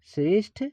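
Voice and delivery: श्रेष्ठ with a crisp aspirated ठ at the end; teacher stressing the ṭh sound. Shown as a demonstration. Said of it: "ये ठा होगा".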